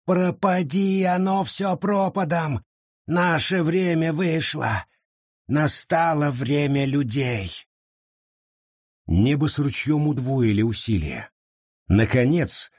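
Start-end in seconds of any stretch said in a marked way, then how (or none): 0.1-7.7 high, slow hopeless lament; bitter despair. Acted. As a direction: mourn that it is over. Forest despairs, gives up.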